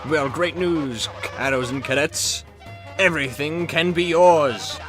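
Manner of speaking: hyped TV announcer voice; booming prize announcer. Acted. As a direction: sell the prize like a showman. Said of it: "prize announcer read".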